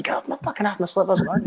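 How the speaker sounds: high-pitched mock complaint; mock bus grumble. Recalling a rapper on his toes at bedtime, mock complaint.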